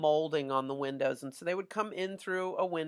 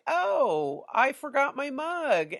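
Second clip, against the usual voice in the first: higher-pitched voice imitating a student; unsuspecting student; 9 semitones higher, 3 dB louder, slower than usual. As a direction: play a kid suddenly noticing what he forgot, pitched up. Acts out student finding his mug.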